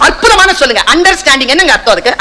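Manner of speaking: ordinary delivery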